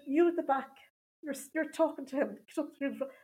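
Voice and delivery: lightly voiced strict nun barking orders; a hint of a bossy nun ordering people about. Nun character rearranging the audience, mildly bossy. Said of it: "My inner bitch came out".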